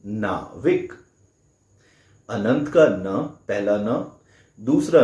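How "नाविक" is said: नाविक with the ना drawn out long; extended na sound. Shown as a demonstration. Teacher showing students the long ना in नाविक. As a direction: stretch the ना in नाविक. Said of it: "ना की sound extended है".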